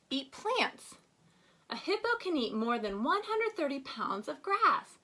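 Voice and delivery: lightly expressive read-aloud voice; reading aloud to children. Acted. Teacher reading Go Wild to first graders, storybook read-aloud.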